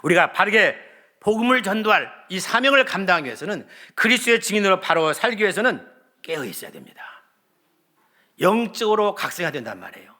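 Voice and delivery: high, loud, rising sermon climax; a pastor pleading with the congregation, loud and high; impassioned preaching. Acted. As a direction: preach it out with full fervor. New sermon, full force.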